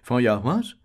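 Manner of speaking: a barmaid mocking a fussy old chemist; snuffy Fogy's tone. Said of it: "in snuffy Fogy's tone".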